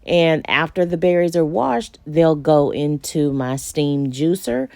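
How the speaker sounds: usual speaking voice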